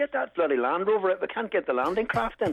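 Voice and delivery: loud, bellowing, high-pitched shouting. Telling about unloading on a beach, repeating what they shouted: retelling own shouting. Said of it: "And I was shouting".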